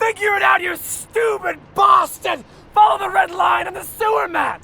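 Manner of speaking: bellowing at his underling in a rage; furious shout. Acted. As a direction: tear into the driver, barking every word. Boss berates his driver.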